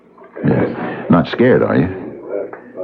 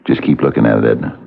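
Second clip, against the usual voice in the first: hypnotic coaxing. Acted. Hypnotizing her with the ring.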